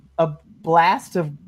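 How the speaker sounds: ordinary delivery, nothing marked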